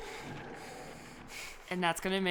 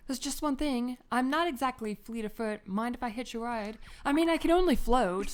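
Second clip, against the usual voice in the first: higher-pitched game companion voice; chatty floating companion; 4 semitones higher than usual. Acted. Companion asks player for a ride, higher character voice. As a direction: voice a higher, chatty little sidekick. Do you want me to voice her.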